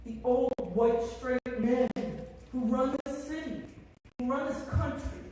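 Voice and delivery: real tearful outrage at the council; starting to cry. Real, not acted. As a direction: voice rising, close to tears. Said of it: "And I'm gonna start crying now".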